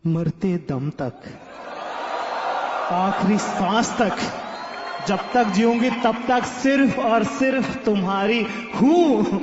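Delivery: slow, rising, loud tearful-vow parody; mock dramatic girlfriend. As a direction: ham up her teary promise. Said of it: "कहती". (रोती प्रेमिका की नाटकीय, धीमी और ऊँची क़सम)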